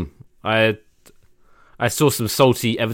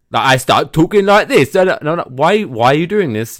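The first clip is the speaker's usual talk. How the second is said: loud, high, put-on English accent; exaggerated English accent; 7 semitones higher, 7 dB louder than usual. Shown as a demonstration. Englishman mocking his own impression, exaggerated English accent. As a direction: overdo the English accent, pitched right up. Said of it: "doing an impression of an English person".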